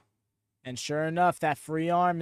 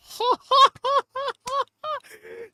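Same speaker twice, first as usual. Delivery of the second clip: high burst of laughter; 5 dB louder than usual. Real, not acted. Laughing at a big spot.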